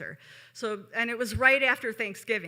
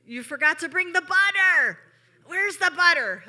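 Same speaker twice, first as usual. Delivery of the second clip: loud, high scolding yell at the waiter; hammed-up boss yelling; imitated angry yell; 7 semitones higher, 7 dB louder than usual. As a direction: bark at the staff over missing butter. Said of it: "She would yell at the wait staff".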